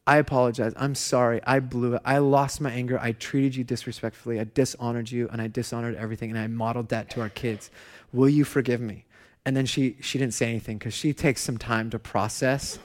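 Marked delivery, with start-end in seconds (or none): 0.1-9.1 sincere apology. Retold or imitated. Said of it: "I turn to Alex and I say".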